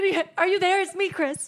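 half-joking prayer to the sky; mock prayer. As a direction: playfully ask if God is listening. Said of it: "I said".

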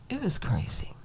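hushed whispered repeat. Shown as a demonstration. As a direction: drop to a breathy whisper, as if sharing a secret. Repeats line, then whispers it.

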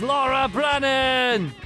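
announcer intro. Acted. Host introduces studio guest.

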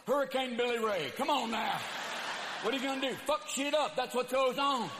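rowdy hick itching to wreck stuff; redneck hurricane. Acted. A rowdy Texas hurricane whooping at the crowd.

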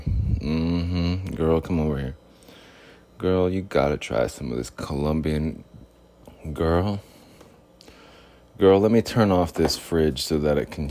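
lightly voiced smooth talker; playful smooth-operator come-on; bling character. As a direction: coax her over, mock-suave. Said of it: "I turn into a different bling character".

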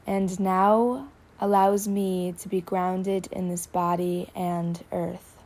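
slow, deliberate statement with long pauses between phrases; slow, in chunks. Shown as a demonstration. Guide leading listeners to repeat after her, slow and chunked. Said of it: "I'm gonna say it slow; I'll say it in chunks".

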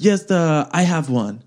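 lightly imitated French accent; fake French accent. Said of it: "it was like my French accent now".

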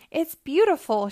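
high, pleased admiration; smiling. A narrator's reading. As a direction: admire it with an audible smile. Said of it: "she smiled".

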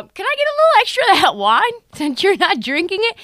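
hammed-up cheeky guest; mock cheeky guest. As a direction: guest grabbing the wine.

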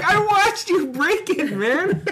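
high, slow voice breaking into laughter; laughing imitation. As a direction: giggle through the friend's line. Voicing Ed, laughing.

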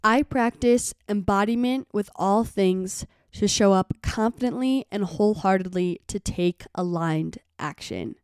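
slow soft affirmation; softly and slowly, fading out. Shown as a demonstration. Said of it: "Kind of a lengthy one".

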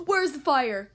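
loud fireman's call; shout. Acted. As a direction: call out to find the fire. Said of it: "shouts a fireman".

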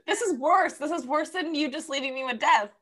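high-pitched outraged complaint; indignant protest. Real, not acted. Listener scolds friend for reading the teaser, indignant. Outraged at being left on cliffhanger.

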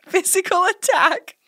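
breathy whispered repeat. Pretend. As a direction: whisper it slowly.

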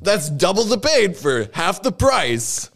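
slow, punchy sales slogan; infomercial slogan. Pretend. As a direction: sell it like a TV ad. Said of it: "this is an infomercial".

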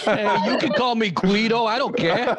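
put-on New York accent. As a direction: lean into New York Italian swagger. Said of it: "accent in the entire".

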